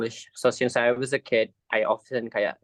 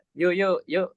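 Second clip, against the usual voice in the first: higher-pitched Singlish accent; playful Singlish demo, pitched up; 5 semitones higher than usual. Shown as a demonstration. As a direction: put on a Singaporean English accent. Demonstrating Singlish after accent talk.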